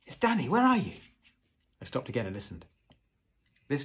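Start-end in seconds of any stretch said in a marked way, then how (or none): 0.1-0.9 high, loud searching shout. A narrator's reading. Boy asking where his father is, shouting. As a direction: shout to find someone in the dark. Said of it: "I shouted".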